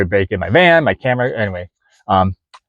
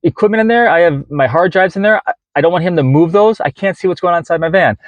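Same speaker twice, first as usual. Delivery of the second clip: anxious, strained and high; high agitated voice; 7 semitones higher than usual. Retold or imitated. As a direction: voice pitched way up, pleading. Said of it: "and my voice is like this".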